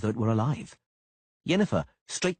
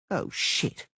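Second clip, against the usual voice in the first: whispered curse; 5 semitones higher than usual. A narrator's reading. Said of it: "Dandelion chimed in".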